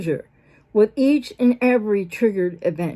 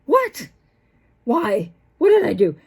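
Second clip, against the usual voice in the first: bewildered what. Retold or imitated. Partner blamed out of nowhere, startled then confused. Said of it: "you're like".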